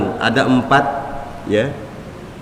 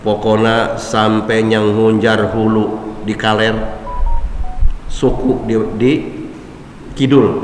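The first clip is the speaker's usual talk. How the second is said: Sundanese saying; 4 semitones lower than usual. Retold or imitated. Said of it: "Ini bahasa Sunda".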